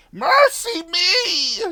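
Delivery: put-on high, slow, loud old woman's astonished cry; amazed cry. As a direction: gasp it out, stunned and delighted. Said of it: "she cried, fair amazed".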